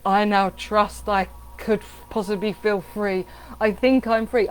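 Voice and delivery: hesitant, halting half-belief; tentative affirmation. Shown as a demonstration. Coach showing how not to affirm, hesitant. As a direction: say it as if unsure you believe it. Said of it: "You're not writing an affirmation like".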